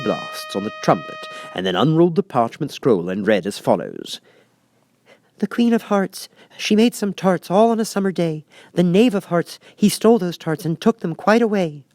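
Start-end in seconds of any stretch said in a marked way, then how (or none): 5.4-11.8 high, sing-song proclamation; herald's reading. Acted. Rabbit reads accusation.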